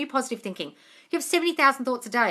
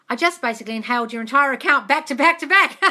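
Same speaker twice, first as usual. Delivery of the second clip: laughing read; 3 semitones higher, 6 dB louder than usual. Real, not acted.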